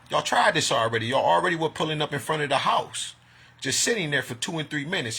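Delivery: heated rant at stalkers; angry accusation. Real, not acted. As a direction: accuse them, voice climbing.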